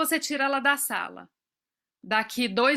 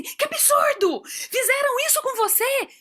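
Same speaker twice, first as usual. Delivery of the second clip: mock outrage; 11 semitones higher than usual. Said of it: "falar assim".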